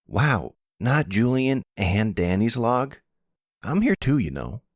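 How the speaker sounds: high-pitched, put-out protest at being left out; indignant. Acted. Danny objects to being left out of Julian's log, indignant.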